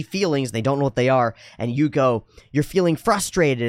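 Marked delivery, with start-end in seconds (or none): 2.5-3.7 raised, emphatic naming of a feeling; validating parent. Acted. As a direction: act a parent naming it for a child. Voicing parent naming child's feeling.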